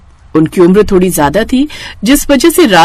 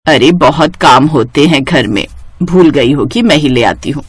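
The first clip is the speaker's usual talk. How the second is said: lightly voiced older mother-in-law, a bit lower, calling for tea; a hint of an elderly sas asking her bahu for tea; 4 semitones lower than usual. (हल्की सी बुज़ुर्ग सास की आवाज़)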